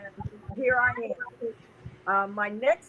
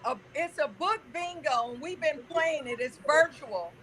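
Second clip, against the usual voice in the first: muffled, talking through a phone; 8 dB louder than usual. Real, not acted. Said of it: "my voice is muffled".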